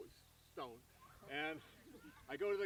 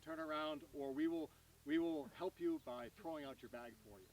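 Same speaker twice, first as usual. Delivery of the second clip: mock announcement. Retelling the British Airways gate announcement in a mock official voice. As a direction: read it out like a stern gate announcement. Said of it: "and there is an announcement".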